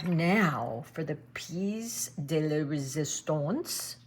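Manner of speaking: slow, hammed-up French accent on the phrase; self-mocking French accent. Painter showing off a fancy phrase in an admittedly bad French accent. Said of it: "my French accent is absolutely horrible".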